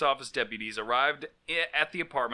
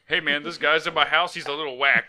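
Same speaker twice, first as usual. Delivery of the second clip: louder mock phone call; 6 dB louder than usual. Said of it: "Just stay right there".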